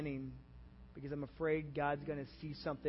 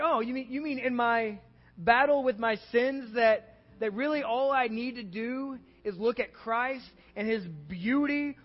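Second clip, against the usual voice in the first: loud, higher-pitched retelling of a revelation; amazed realization; 6 semitones higher, 8 dB louder than usual. Retold or imitated. Preacher retelling his novel thought to the congregation, amazed. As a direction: relive a novel thought with rising excitement.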